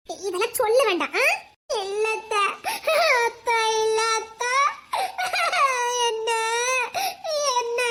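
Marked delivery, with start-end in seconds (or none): 1.8-7.8 sobbing. Acted. Girl sobbing through her denial.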